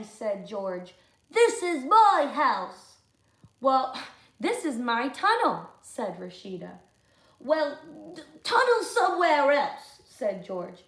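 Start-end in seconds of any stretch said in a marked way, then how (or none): 1.3-3.0 louder, slow, stress on "my"; possessive claim. Acted. George claiming the house from Rashida, loud. 3.6-5.7 cheeky retort. Acted. Rashida answers back. 7.4-10.0 loud, higher dismissal; bossy retort. Acted. George telling Rashida to go, loud.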